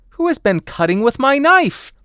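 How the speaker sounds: shrill-pitched tiny dwarf, loud and put out; very high, loud dwarf; sixth dwarf. Acted.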